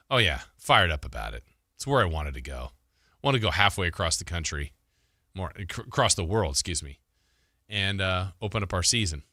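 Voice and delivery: lightly imitated deadpan, low and unexcited; Kyle Shanahan deadpan. Host quoting the coach on opening the season in Australia, mildly deadpan. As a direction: recount it with dry, understated enthusiasm. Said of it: "Kyle Shanahan in his deadpan voice was".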